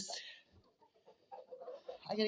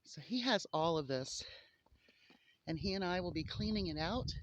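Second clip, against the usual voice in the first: out of breath; 5 dB quieter than usual. Real, not acted. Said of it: "I sound like I'm out of breath".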